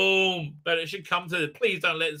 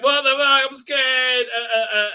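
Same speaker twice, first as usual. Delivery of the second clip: higher and louder, hammed-up fright; mock scared yelp; 9 semitones higher, 6 dB louder than usual. Retelling a frightened kid told to undress, hammed-up fright. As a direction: play a kid's alarmed outburst, mocking. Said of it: "He's like".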